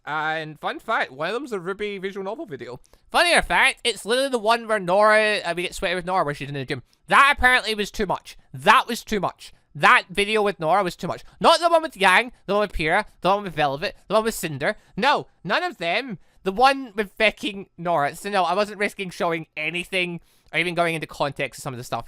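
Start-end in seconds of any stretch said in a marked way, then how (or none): 3.1-11.2 louder, higher exasperated emphasis; indignant disbelief. Real, not acted. Gamer venting to viewers about the demonetized video, exasperated. 11.4-18.2 sarcastic incredulity. Real, not acted. Gamer mocking which video got flagged, incredulous and sarcastic.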